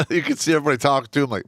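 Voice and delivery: talking fast through laughter; fast, amused storytelling with laughs; laughing, rushed. Real, not acted. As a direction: race through it, cracking up. Laughing while telling story.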